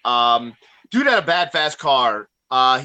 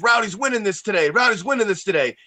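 imitating an excited fan; 5 semitones higher than usual. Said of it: "He goes".

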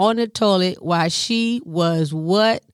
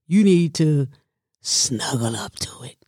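whisper; 4 semitones lower than usual. Real, not acted. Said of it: "self-advice".

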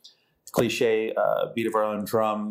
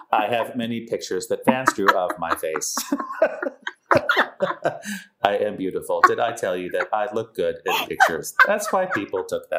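monotone robot voice; flat robotic delivery; 4 semitones lower than usual. Pretend. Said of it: "this robot voice is really cool".

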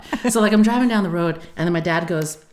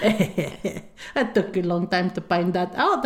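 slow dad voice, teasing; slow, amused dad impression; imitating teasing dad; slower than usual. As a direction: draw it out like a smug prankster father. Dad's slow teasing reply.

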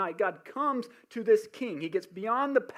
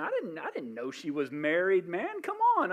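pleading king. Acted.

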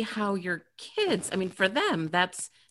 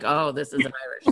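mock screaming floor; 6 semitones lower, faster than usual. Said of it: "scream like".

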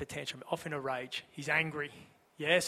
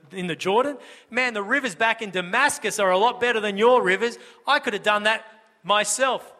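raised, higher indignant complaint; indignant rant; 4 semitones higher, 4 dB louder than usual. Acted. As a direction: rant like an offended commander. Naaman's angry outburst voiced.

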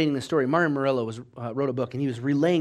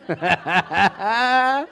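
stuttering laugh climbing higher; mock breathless laugh; 5 semitones higher than usual. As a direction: act out a giddy, rising laugh. Acts reaction to Dylan's question.

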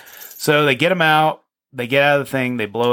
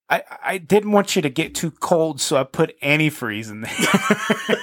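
put-on higher, slower childish confession, half laughing; mock sheepish kid; 5 semitones higher than usual. Son confessing to his dad about the antifreeze, giggling and sheepish. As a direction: confess like a guilty little kid.

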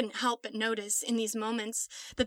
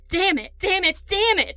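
furious yells building higher and louder each time; screaming in rage; 9 semitones higher, 8 dB louder than usual. Acted. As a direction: pound out each curse harder than the last. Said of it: "Jack screamed".

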